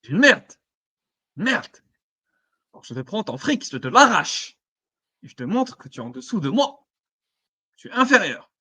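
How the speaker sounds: mocking unhinged villain voice; diabolical grin. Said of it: "un sourire diabolique".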